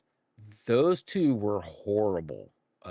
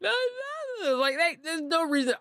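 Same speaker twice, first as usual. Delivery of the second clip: high, insistent parent cutting off the tears; high mock parental scold. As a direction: shoo the crying away like a firm dad. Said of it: "I've done the parent thing".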